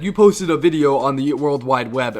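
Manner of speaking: put-on slow, pompous old-man voice; mock old dean. The old dean scolds the student about his video, slow and pompous. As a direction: play the out-of-touch dean lecturing slowly.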